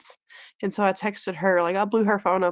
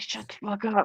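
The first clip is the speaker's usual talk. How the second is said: play-acted fed-up, angry, blunt outburst; 5 dB quieter than usual. Retelling what was told to a talkative inmate: retelling an angry outburst. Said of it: "I literally told him that one day".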